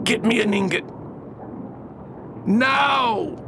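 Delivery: high shouted command; barked order. Acted. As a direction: snap the order at her. Orders daughter to fetch gold.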